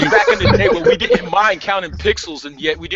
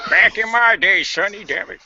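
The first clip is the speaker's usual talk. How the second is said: back in my day rant. Retold or imitated. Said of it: "Cranky Kong, ladies and gentlemen".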